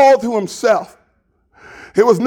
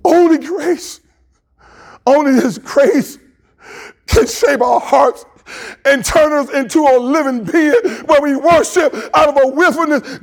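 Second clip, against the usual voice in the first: higher pitched, fervent preaching; impassioned preaching; 3 semitones higher than usual. Real, not acted. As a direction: press the point with fervour. Impassioned preaching about grace.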